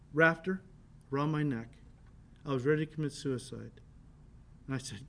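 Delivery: low, soft and heavy, a man near despair; grave, hushed confession. Retold or imitated. Homeowner telling the driver of his despair, hushed and low. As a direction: let it sink, quiet and grave. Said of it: "He said".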